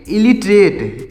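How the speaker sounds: "इलिटरेट" said slowly, syllables drawn out, falling at the end; prononciation modèle. Shown as a demonstration. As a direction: demonstrate "इलिटरेट" slowly for learners. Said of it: "तो इसको क्या पढ़ेंगे?".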